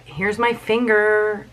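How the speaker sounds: slow, lightly acted offering; drawn-out mock innocence; feigning Hansel. Hansel handing the witch a bone, slow mock innocence. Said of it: "he's like".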